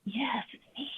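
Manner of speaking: hushed whisper so as not to wake him. Real, not acted. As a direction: whisper it, breathy and unvoiced. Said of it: "I'm sorry I have to whisper".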